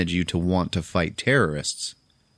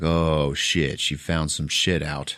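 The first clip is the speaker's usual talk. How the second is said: serious; 3 semitones lower, slower than usual. Retold or imitated. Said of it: "the doctor gets all serious".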